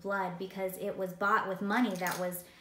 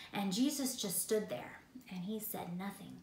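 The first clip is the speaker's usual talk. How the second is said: hushed whisper; 2 semitones lower, 6 dB quieter than usual. Acted. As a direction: drop to a soft whisper. Jesus silent before accusers.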